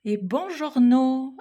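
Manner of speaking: high, drawn-out Italian buongiorno; mock Italian accent. Greeting a friend with a playful Italian accent. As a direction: sing out the greeting like a hammed-up Italian. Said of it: "vous noterez mon super accent italien".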